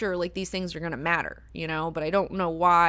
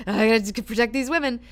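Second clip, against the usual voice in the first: mock protective vow; 5 semitones higher, 7 dB louder than usual. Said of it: "it's like he's".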